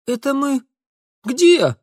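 high, startled asking; bewildered question. A narrator's reading. Boy after the fall asking in bewildered surprise. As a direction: ask where they are, stunned.

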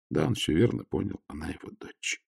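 ordinary delivery, nothing marked

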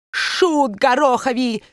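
put-on high, slow accented outburst; angry cry. A narrator's reading. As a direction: hurl the insult in a German accent. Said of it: "вскричал Нусинген". (медленный высокий гневный вскрик с акцентом)

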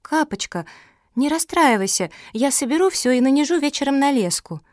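put-on a young sister rushing to comfort; high little sister voice. A narrator's reading. (высокий детский голос)

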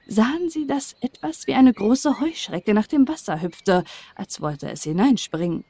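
ordinary delivery, nothing marked

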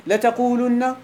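لتقولن said letaqulunna with a clear damma; لتقولن, plural form, stressed u; form with u before the nun. Shown as a demonstration. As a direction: give لتقولن a distinct u sound. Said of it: "يلا قولوا معي".

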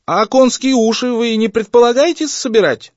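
high, loud rattling yell; father loses it and shouts; high, shaky cry of outrage; shouting, voice rattling. A narrator's reading. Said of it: "закричал папа дребезжащим голосом".

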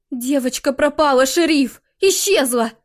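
loud, urgent phone report; aunt telling the sheriff the girl is gone, loud and urgent. A narrator's reading. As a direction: shout it down the line to the sheriff.

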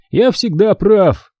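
slow, smug self-satisfied boast. Acted. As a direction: savour it like you always win. Smug boast after grin.

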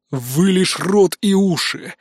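slow, drawn-out sighed remark. Acted. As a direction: draw the words out with a sigh. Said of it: "вздохнул Аарон". (медленно, со вздохом)

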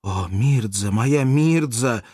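a wounded man gathers strength to call her; clear dying voice. Acted. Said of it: "ясный голос умирающего".

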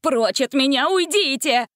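high, loud, desperate; panicked. A narrator's reading. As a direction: beat them off in panic. Jenkins fighting off animals.

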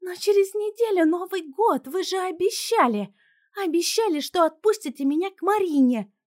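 high, loud desperate whine; pleading teen. A narrator's reading. Daughter pleading with her parents, high loud whine. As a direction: beg the parents not to cancel.

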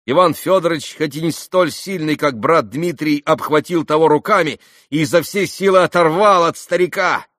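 ordinary delivery, nothing marked

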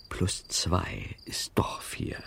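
hushed secret whisper. Acted.

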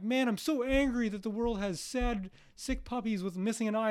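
mock outrage. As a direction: overplay the outrage a little. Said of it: "And you're like".

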